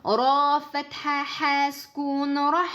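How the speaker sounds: whispered, slow airy ha sukun; flowing ha. Shown as a demonstration. Teacher showing how the ha flows in "rah". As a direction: let the breath of "rah" flow out. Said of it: "Laisse couler le ha soukoun".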